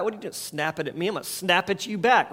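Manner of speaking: quick, clipped-back mock snapping; mock snappy retort. Spouse snapping back at a partner, fast and mocking.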